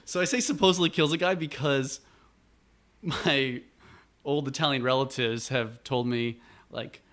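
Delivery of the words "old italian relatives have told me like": ordinary talk, nothing marked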